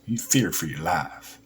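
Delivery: put-on southern American accent. Shown as a demonstration. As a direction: imitate a Southerner, flattening "life" toward "laff". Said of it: "This is my southern accent".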